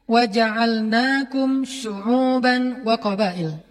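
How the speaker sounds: slow, drawn-out Arabic recitation; Quran recitation. Acted. Preacher quoting the verse to the audience, recited slowly. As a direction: chant the verse slowly and reverently.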